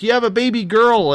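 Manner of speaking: high-pitched imitation of an excited announcement; retold birth announcement. Doctors telling the new father of the birth, imitated excited announcement.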